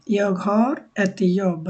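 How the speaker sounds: "Jag har ett jobb" said very slowly and clearly; slow model sentence. Shown as a demonstration. Teacher modelling a Swedish sentence, very slow. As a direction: lay each word out slowly for learners. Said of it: "So, আমার একটি কাজ আছে।".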